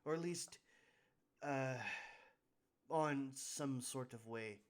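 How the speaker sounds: lightly voiced, mildly exasperated boss; sighing boss. Boss writes to the party about her brother, mildly exasperated voice. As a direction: read the letter with a touch of a weary sigh. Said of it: "feel the sigh that she gives".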